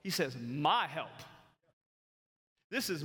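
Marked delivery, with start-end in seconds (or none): 0.4-1.1 "My" in "My help" stressed and falling; emphatic my. Retold or imitated. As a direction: repeat "My help" with weight on "My". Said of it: "I want you to notice".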